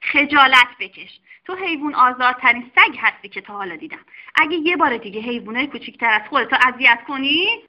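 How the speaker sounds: loud, fast mock-angry scolding; doctor yelling. Doctor yelling at the dog, loud and fast. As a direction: shame the dog at full voice. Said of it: "سر آقا سگه داد زد".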